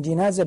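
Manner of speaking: جنازة begun with "ji", a short i; جنازة pronounced "ji-naza"; kasra on jim. Shown as a demonstration. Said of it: "بالكسر أفصح".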